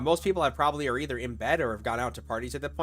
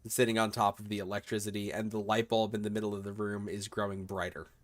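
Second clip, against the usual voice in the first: slower, measured scene-setting; game master narration; 5 semitones lower, 5 dB quieter than usual. Acted. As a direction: describe an eerie scene in a low, measured voice.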